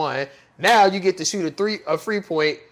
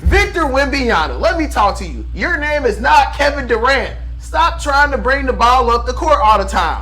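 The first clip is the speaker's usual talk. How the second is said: raised voice, calling out a player; heated rant; 6 semitones higher than usual. Real, not acted. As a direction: yell it like a fed-up fan. Yelling advice at Wembanyama.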